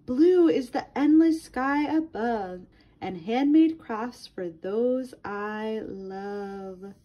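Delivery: lilting read-aloud for a class; reading to children. Acted. Teacher reading a color book to her class, lilting read-aloud. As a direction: read it to little ones, rhyme by rhyme.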